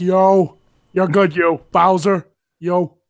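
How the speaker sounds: loud, very slow, deliberate, every word stretched. Imagining Robert De Niro playing Mario: Robert De Niro voice. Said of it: "could you imagine if Robert De Niro played Mario".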